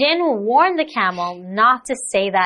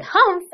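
mock humph; 10 semitones higher than usual. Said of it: "So he said".

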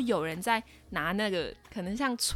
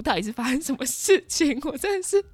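higher, laughing at own bad luck; exasperated laugh; 9 semitones higher, 4 dB louder than usual. Real, not acted. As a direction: laugh in disbelief at herself. (笑着无奈地抱怨)

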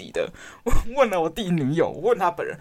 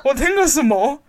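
higher, louder stunned exclamation; shocked disbelief; 8 semitones higher, 4 dB louder than usual. Real, not acted. Sister reacting to her brother's baby talk, stunned and much louder. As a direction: react like you can't believe your ears.

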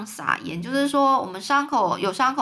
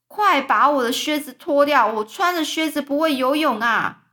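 panicked shout; 5 semitones higher, 5 dB louder than usual. Acted. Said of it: "也跟着就叫起来了".

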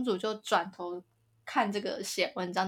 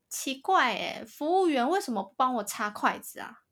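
imitating whiny girlfriend; 5 semitones higher than usual. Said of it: "我刚刚为什么要学她讲话".

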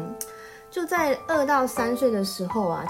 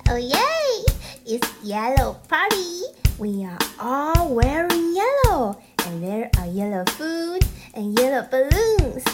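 excited little princess; 3 semitones higher, slower than usual. Acted. Plays the crocodile princess.

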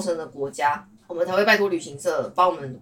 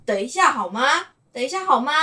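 mimicking a rude waiter's grudging reply, higher pitch; annoyed waiter; 6 semitones higher than usual. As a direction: echo the waiter's impatient tone. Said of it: "我最讨厌那种服务生会讲说". (模仿不耐烦的服务生)

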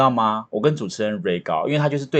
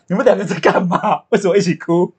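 imitated host; 9 semitones higher, 4 dB louder than usual. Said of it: "然后主持人就说".

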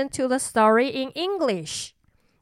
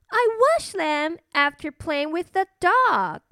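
cartoon princess; 5 semitones higher than usual. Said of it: "said the little princess".

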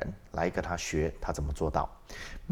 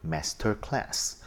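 slow and deliberate; 3 semitones higher, much slower than usual. Shown as a demonstration. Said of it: "这个网站就叫做".

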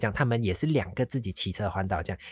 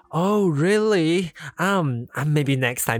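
mock surprised refusal; 6 semitones higher, 4 dB louder, much slower than usual. Tourist politely refusing stinky tofu.

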